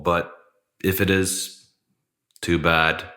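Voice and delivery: echoey room. Real, not acted. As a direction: voice ringing in a bare, empty room. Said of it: "This is really echoey in here".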